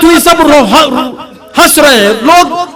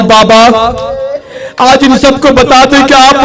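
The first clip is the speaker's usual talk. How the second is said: calling out. Retold or imitated. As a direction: call out to her father. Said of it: "آواز دی".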